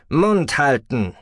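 high, slow, loud order; sharp command. A narrator's reading. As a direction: snap it out slowly. Attacker silences captive.

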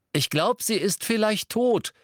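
put-on high, gleeful child's cry; gleeful call. A narrator's reading. First-year boy announcing to the Ravenclaws, gleeful. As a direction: call it out in high-pitched delight. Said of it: "rief er vergnügt".

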